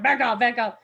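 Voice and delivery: a guard pushing a fan away; firm warning. Retold or imitated. Guard pushes fan back.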